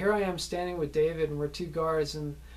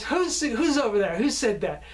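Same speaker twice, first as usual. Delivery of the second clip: higher, raised demand; calling out; 7 semitones higher, 5 dB louder than usual. Retold or imitated. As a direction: call out to someone hidden, retold. Actress calls out to hidden heckler.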